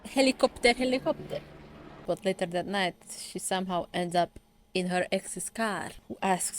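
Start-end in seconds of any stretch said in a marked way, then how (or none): 0.0-1.4 louder, higher call of helicopter. Real, not acted. Annoyed at the plane during recording, calling out. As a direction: shout it out at the noise overhead. Reacting to passing aircraft noise.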